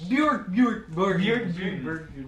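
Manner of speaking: mock screaming.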